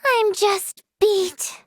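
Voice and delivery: slow, drawn-out tired complaint; worn-out whine. Acted. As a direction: drag it out, exhausted. Worn out, asking for coffee.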